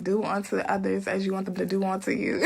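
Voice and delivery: laughing through the line; cracking up mid-sentence; giggling at her own joke. Real, not acted.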